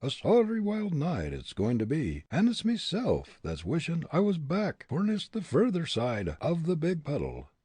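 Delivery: lilting Irish character voice; Irish brogue. A narrator's reading. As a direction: fret in a comic Irish brogue. Irishman's dialect speech in story.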